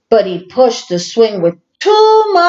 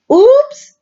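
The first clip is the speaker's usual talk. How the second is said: loud oops; 5 dB louder than usual. Acted. Squid breaks swings.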